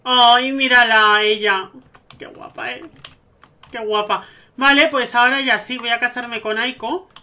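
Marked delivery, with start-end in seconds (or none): 0.0-4.2 loud, drawn-out adoring coo; gushing admiration. Real, not acted. Player sees the bride appear, loud gushing admiration. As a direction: gush loudly over someone lovely.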